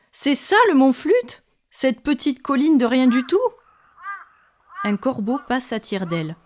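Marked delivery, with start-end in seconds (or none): 0.1-3.4 high, loud disbelief; indignant cry. A narrator's reading. Siren seeing the tiny hill, crying out. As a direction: cry out in raised-pitch dismay. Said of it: "s'écrie-t-elle".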